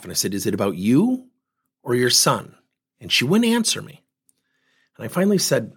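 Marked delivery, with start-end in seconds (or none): 0.3-2.6 low, measured repeat of a question; calm. Retold or imitated. Coach putting the question to an upset mother, low and calm. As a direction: ask it low and calmly, pausing midway. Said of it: "And I calmed my voice down".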